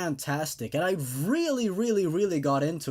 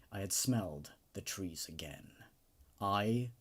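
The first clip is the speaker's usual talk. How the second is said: dramatic horror story narration. A narrator's reading. Narrator reading a horror story aloud to his audience, dramatic and immersed. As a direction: read it like a creepy campfire tale. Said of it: "while I was narrating that, I was getting into the story".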